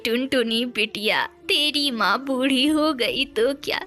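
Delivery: lightly voiced consoling granny; a hint of a kindly old mother; reassuring old mother. (हल्के से दिलासा देती बूढ़ी माँ)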